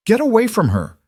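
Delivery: high, loud whip-crack command; a frightened mother snapping at a stranger; sharp angry order. Acted. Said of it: "her voice a whip crack".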